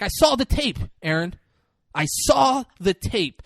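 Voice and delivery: high-pitched, insistent acted accusation; pressed accusation. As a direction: press the accusation, stretching the repeat. Retold confrontation, pressing the accusation.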